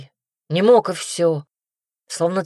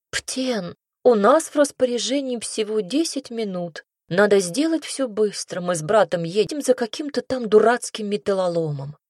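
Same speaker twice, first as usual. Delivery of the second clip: higher, mocking parody of his bossy voice; mocking imitation of Adam; 4 semitones higher than usual. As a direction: mimic him to tease him. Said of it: "Передразнила я Адама".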